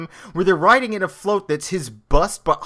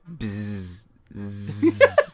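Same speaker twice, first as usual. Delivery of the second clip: buzzing gibberish standing in for a whisper; buzzed mock whisper; 7 semitones lower than usual. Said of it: "he whispers to him".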